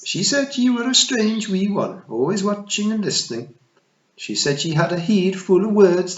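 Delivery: high, loud tiny pixie matriarch; a tiny Scots fairy queen, pitched high; Kelda voice. Acted. Kelda speaks to Tiffany.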